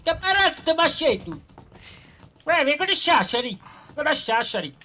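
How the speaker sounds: very high-pitched Sardinian parody; mock Sardinian accent. Trading Sardinian gibberish with teammates, mock Sardinian accent. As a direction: squeal it in a put-on Sardinian accent.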